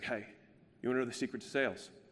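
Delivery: slight, faint put-on Australian accent. Retelling how a guy pulled them aside, the speaker quotes him in a faint australian accent. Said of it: "That's my faint Australian accent".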